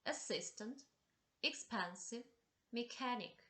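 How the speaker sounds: asSIStant, exPENsive, meCHANic, each stressed in the middle; second-syllable stress. Shown as a demonstration. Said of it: "the stress on the second syllable".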